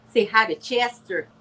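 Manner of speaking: hint of Granny D's accent. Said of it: "I talked like Granny D".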